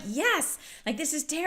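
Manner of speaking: high mock outraged caller; imitating upset caller.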